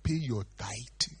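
slow, deliberate pay your tithe. Shown as a demonstration. Telling the church to tithe, slow and deliberate. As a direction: spell it out slowly. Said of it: "If you want to pay".

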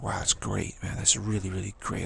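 hushed, breathless whisper; awed whisper. Retold or imitated. Stranded rider thanks the helper in an awed whisper. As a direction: whisper it like you're overwhelmed.

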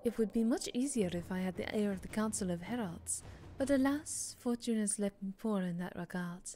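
lightly put-on French accent reading a letter; faint French accent, mostly own voice. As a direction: read the marquis's letter with a hint of French. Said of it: "I should do this in a French accent".

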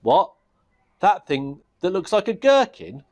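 high sneering goblin scoff at "gherkin". Acted. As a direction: scoff at the whole idea. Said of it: "sneered the Goblin King".

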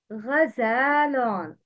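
غزال with a long drawn "zaa"; teacher modelling غزال; model long vowel. Shown as a demonstration. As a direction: stretch the long a in غزال slowly. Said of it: "Please repeat".

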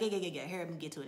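very fast, rattled-off retold impatience; impatient hurrying. Master wants the singers to hurry up, impatient hurrying. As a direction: rush through it, waving the singers on. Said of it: "He wants them to hurry up".

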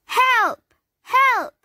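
high, loud cries for help; a panicked vegetable calling out; cried for help. A narrator's reading. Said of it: "cried Carrot".

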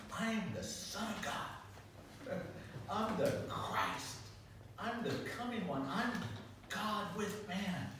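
slow, measured proclamation; lightly voiced solemn Jesus, slow. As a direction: declare it slowly, with weight. Jesus voiced declaring himself.

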